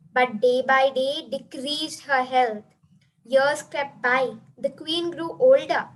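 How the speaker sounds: reciting a rhyming story poem aloud; lightly declaimed verse, phrase by phrase; poem recitation. Acted. Recites her own satirical poem.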